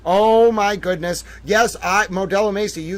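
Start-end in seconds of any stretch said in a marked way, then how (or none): 0.1-1.2 slow, louder drawn-out oh; swooning gush. Acted. Host overwhelmed by cute dog photo, slow gush. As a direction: gush like you can't contain yourself. Gushing over dog picture.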